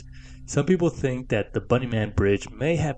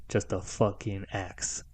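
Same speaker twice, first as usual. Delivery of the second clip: hushed, slow whisper; 6 dB quieter, slower than usual. Acted. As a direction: drop to a creepy whisper. Spooky storytelling punchline whisper.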